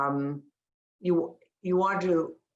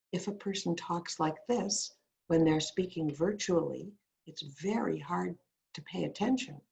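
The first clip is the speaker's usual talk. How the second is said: too soft; 5 dB quieter than usual. Shown as a demonstration. Coach showing students poor volume on virtual calls, too soft. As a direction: speak too quietly to hold attention. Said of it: "if I talk too softly".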